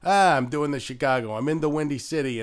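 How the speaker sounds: loud, broad Chicago accent. Shown as a demonstration. Showing how accents drift, hammed-up Chicago accent. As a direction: lay on a Chicago dialect. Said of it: "I'm trying to do Chicago".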